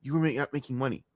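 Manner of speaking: fast quiet repeat. Real, not acted. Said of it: "Think about what he just said".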